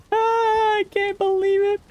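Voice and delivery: high, giggling disbelief; real delighted laughter through the words; laughing. Real, not acted.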